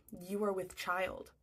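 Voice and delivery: slow, lightly imitated Nigerian accent. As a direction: break it slowly in a Nigerian accent. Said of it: "He's got this thick accent".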